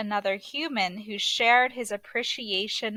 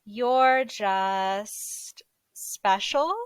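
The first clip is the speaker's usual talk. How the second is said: gentle whisper; much slower than usual. Acted. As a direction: breathe it out slowly, barely voiced. Papa Elf comforting Buddy.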